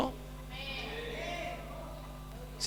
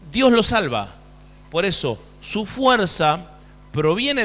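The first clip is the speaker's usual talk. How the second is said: raised, emphatic pulpit voice; forceful preaching; 3 semitones higher, 4 dB louder than usual. Real, not acted. Preacher assures congregation God saves the sick, forceful preaching. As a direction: press the promise home with weight.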